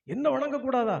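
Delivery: the proud king of gods bristling with rage; outraged god. Acted. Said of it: "இந்திரனுக்கு வந்ததே கோபம்".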